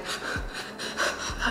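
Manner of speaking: soft, shuddering sobbing breaths; mock sobbing in quick breaths; imitated crying breaths. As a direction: act out quiet, wordless crying gasps. Acting out nonstop crying.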